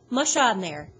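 loud driving call to dogs; shouted command. Acted. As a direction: urge the team on loudly. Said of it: "he shouted".

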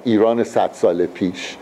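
the Persian words Iran sat sal pish said slowly, with Persian sounds; Persian saying. Retold or imitated. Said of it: "we have a Persian expression".

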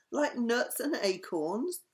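squirrel voice. Acted. Squirrel Sam voiced in story.

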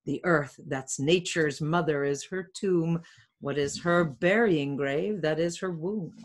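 measured Shakespearean read-aloud; verse reading. Acted. Friar Lawrence talking to himself at dawn, measured verse reading. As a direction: read the rhymed verse with deliberate phrasing.

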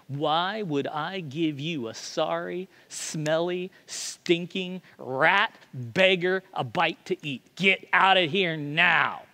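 spitting mild venom at a beggar; venomous. Acted. Pub lady refuses a beggar food, mock venomous. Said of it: "with just all kinds of venom".

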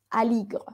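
"aligre" trailing off softly on GR; muted final E. Shown as a demonstration. Teacher explains the unaccented final E, leaving it muted. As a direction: say "aligre" with no Spanish E at the end. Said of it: "Sobre todo al final".

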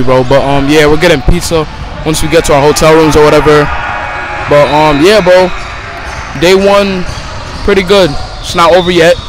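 loud over the noise of the gym; talking over noise. Real, not acted. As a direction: speak up so the camera catches it.

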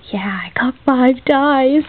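whispering. Real, not acted. Vlogger counting her new dies whispers to herself. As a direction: whisper it as if to yourself. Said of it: "I don't know why I'm whispering".

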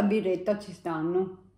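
talking while sipping beer; words muffled by glass rim; speaking into a glass. Real, not acted. Seen 2: No chewing seen; she raises beer and sips while speaking.

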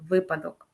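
"випадок" stressed on ВИ; stress on first syllable. Shown as a demonstration. Teacher gives the correct answer, "випадок" with stress on ВИ. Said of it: "на перший склад наголос падає".

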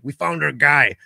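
lightly voiced cop calling out a find; matter-of-fact cop quote, lightly imitated; retold police officer. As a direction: announce it like an officer, falling at the end. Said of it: "the guy came out and he said".

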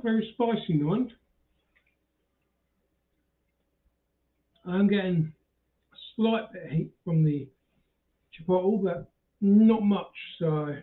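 chewing between words; snacking while speaking; talking while eating nuts. Real, not acted. Seen 2: holds nuts at his mouth throughout, bowl visible, likely chewing.

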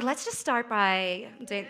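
put-on slow, drawn-out Valley girl; Valley girl accent. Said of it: "I don't know why she's a Valley girl".

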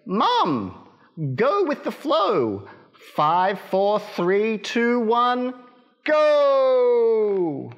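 high, rising duckling countdown; little duck. Acted. First little duck urging mum to jump, high. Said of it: "the first little duck said".

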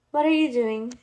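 loud, startled demand; shout. A narrator's reading. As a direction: shout it in protest at the guards. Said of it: "Tella shouted".

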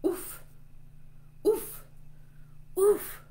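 short, high puffed oofs; wrestler's oof. Pretend. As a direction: oof as if knocked while wrestling. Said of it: "this one says".

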